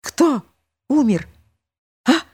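high startled question; frightened voice. A narrator's reading. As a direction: gasp it out from behind. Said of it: "испуганный голос". (испуганный голос)

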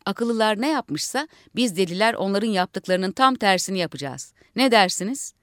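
rousing orator to the assembly; speechmaking leader. Acted. Leader addressing fellow madmen, rousing speech. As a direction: lead the crowd like a rally.

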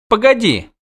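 put-on high-pitched little girl; halting call to make them wait; girl's plea. Princess left behind calls after witcher, high pleading voice.

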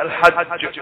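الحج with a doubled, bounced ج; strongest qalqalah. Shown as a demonstration. Teacher stopping on doubled ج in الحج, strong qalqalah. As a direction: press the ج of الحج and release it with an echo. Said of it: "فهذا أشد".

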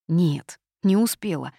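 usual speaking voice

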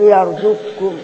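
يرزقكم with qaf turned into a doubled kaf; qaf assimilated. Shown as a demonstration. Teacher applying the rule to an example, يرزقكم with doubled kaf. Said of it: "وبعد الكاف ميم جمع".

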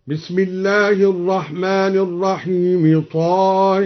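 measured Quranic recitation ending طه on a long tilted e; tilted haa vowel. Shown as a demonstration. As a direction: chant طه as "taa-hee", the last vowel bent toward e. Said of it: "أمل الهاء هكذا".

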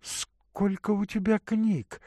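put-on a caring young woman offering water; Katerina's voice. Katerina surprised.

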